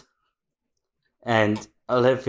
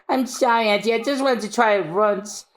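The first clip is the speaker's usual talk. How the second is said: higher small apology; timid girl; 7 semitones higher than usual. Acted. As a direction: apologize meekly to auntie. Robin apologizing.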